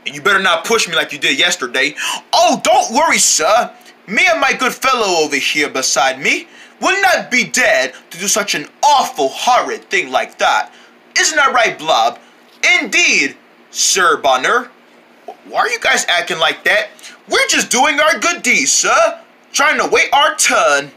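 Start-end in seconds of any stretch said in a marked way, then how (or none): 2.3-14.7 mock British politeness; plummy British gentleman voice; posh British accent. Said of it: "all that Britishness". 17.3-20.9 high prim British voice; overly polite British gentleman; posh British accent. Acted. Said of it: "all that Britishness".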